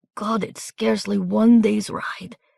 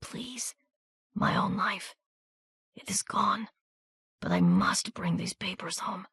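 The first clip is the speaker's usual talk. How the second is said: softer, half-whispered pleading; wounded soldier begging Miranda to carry his papers; desperate weak plea; 2 semitones higher, 3 dB quieter than usual. A narrator's reading. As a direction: beg while your strength fails.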